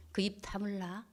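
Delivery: hushed, very soft command; whispered order. Retold or imitated. Wife telling husband to close his mouth, whispered. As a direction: order silence under your breath.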